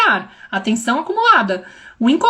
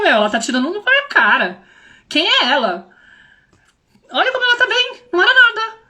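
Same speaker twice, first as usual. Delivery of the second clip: much higher, playful amazement; mock amazed; 8 semitones higher than usual. Mother amazed that her daughter recovered so fast. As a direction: marvel in a high voice at how fine she is. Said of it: "eu olho pra minha filha tendo aquilo e falo".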